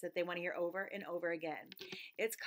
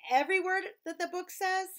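high indignant question; mock outrage; 8 semitones higher, 5 dB louder than usual. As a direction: act shocked at the rule. Pretend outrage at rule.

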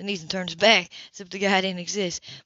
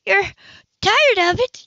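much higher, louder outraged question; outraged disbelief; 13 semitones higher, 10 dB louder, slower than usual. Acted. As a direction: sputter it back in disbelief. Grace sputters outraged.

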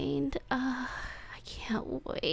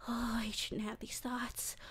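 whisper; 11 dB quieter than usual. Acted. Guilty whisper.

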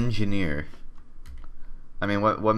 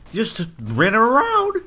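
drawn-out high dizzy voice; high, slow wobbly voice; 10 semitones higher, slower than usual. Acted. Spinning dizzy in game.

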